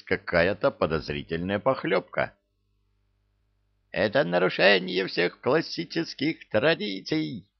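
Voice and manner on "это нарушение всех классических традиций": put-on high, shrieking old professor; squealing professor. A narrator's reading. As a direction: squeal in scholarly outrage. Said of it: "визжал почтенный чёрт".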